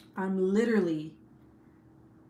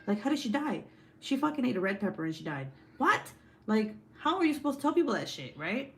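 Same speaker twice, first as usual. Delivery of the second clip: panicked inner voice; 4 semitones higher, faster than usual. Retold or imitated. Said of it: "I was like".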